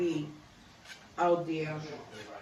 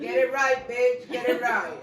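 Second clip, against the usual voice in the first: excited; 4 semitones higher, 6 dB louder than usual. Real, not acted. Cheering on niece's boast.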